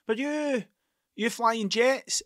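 high, slow disbelieving question; incredulous. Retold or imitated. Neighbours at the door doubting his jet story, incredulous and slow. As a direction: stretch it out, can't believe it.

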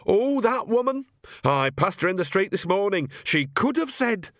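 put-on high-pitched exasperated old woman; indignant old witch. A narrator's reading. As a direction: complain indignantly, voice jumping up. Narrator voices annoyed Nanny.

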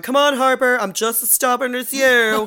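high, loud, drawn-out mock holler; calling through door. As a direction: imitate someone hollering through a closed door. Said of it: "Olivia's kinda banging on the door".

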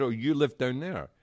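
high, loud Aussie supervisor; imitated Aussie official; Australian accent. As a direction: question it in a put-on Australian accent. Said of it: "Is that your Australian accent?".

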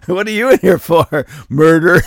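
mock tough jailbird; tough inmate. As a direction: ask like a hardened inmate. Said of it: "acted inmate asking".

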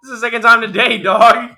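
frat bro. Retold or imitated. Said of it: "I was saying like".

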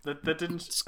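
hushed aside with a giggle; whispering. Real, not acted. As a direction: whisper it to the listeners. Whispered aside about recording noises.

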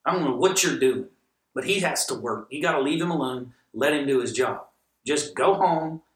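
fed-up boss laying down the law; snapping at her. Retold or imitated. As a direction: tell her off sharply. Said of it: "one day I snapped".

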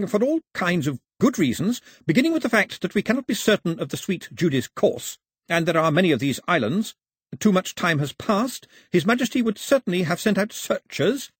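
high-pitched, measured official voice; formal official. A narrator's reading. Mister Black justifying his view to the captain, formal. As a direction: set out reasons with authority.

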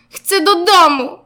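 high, loud wailing cry; acted child's shout. A narrator's reading. Zygzak left at preschool crying for home, acted shout. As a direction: shout it out like an upset little one. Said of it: "krzyknął Zygzak".

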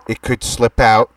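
dictating. Acted. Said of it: "Here's the info".

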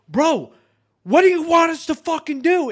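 high, loud, fed-up outburst, reenacted; exasperated protest. Squad answering a downed teammate's screaming, exasperated protest. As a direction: protest loudly to an unreasonable teammate.

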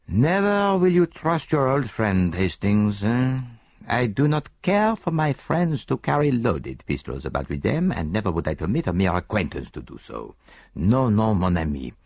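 tut-tut at a friend, lightly; mild reproof. Acted. Poirot gently scolding Hastings over the pistol, mild reproof. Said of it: "Poirot's voice rose in mild reproof".

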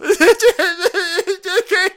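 high loud cackle; loud laugh. Real, not acted. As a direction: crack up loudly. Laugh after insult.

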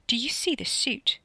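high, deliberate, stressed delivery; haughty intimidation; menacing question. A narrator's reading. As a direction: loom over them with each word. Armed man menaces the driver.

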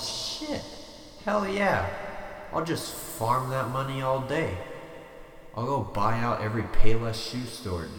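excited. Pretend. Imagines devil offering a million.

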